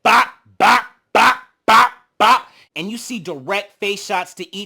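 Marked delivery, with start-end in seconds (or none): 0.0-2.5 loud imitated bop bop punches; punch sounds. Imitating Rolly landing punches, loud bop sounds. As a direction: pound out the punch noises. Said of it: "Rolly said".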